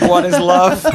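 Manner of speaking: slow, high dying robot voice. Retold or imitated. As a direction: fade out like a robot shutting down. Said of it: "You sound like a robot just about to die asking".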